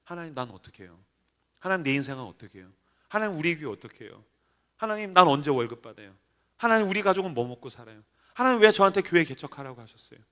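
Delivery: soft, low lament, gradually rising; despairing prayer. Retold or imitated. Pastor driving home in despair, low pleading. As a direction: question God quietly, the pitch creeping up. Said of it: "마음의 어둠이 막 들이닥쳐요".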